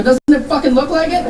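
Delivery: mock annoyed. Annoyed reply.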